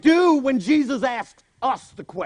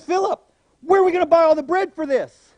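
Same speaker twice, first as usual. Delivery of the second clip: higher, louder question to Philip; testing question; 6 semitones higher, 6 dB louder than usual. Retold or imitated. Jesus testing Philip about the bread, louder. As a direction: put him on the spot.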